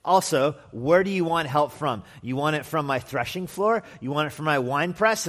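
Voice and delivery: sarcastic king refusing to help. Acted. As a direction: fire rhetorical questions back at the pleader. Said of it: "kind of as a sarcastic expression".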